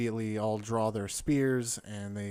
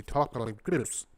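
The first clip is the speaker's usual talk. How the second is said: underwater voice; 5 dB louder, slower than usual. Shown as a demonstration. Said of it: "it sounds like they're talking underwater".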